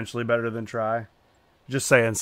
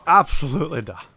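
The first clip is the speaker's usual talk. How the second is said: higher, louder mock-British accent; put-on British accent; 5 semitones higher, 8 dB louder than usual. Shown as a demonstration. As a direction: ham up your best British. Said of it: "do your best British accent".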